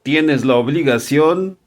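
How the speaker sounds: measured, deliberate imagined warning; spelling it out. Pretend. Senate addressing the United States about extradition, spelling it out. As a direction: lay down the terms plainly, pausing between clauses. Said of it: "le van a decir clarito".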